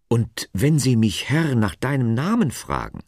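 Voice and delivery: anxious question, mildly acted, pitched high. A narrator's reading. Moses asks God for his name, mildly anxious. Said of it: "fragte Mose ängstlich".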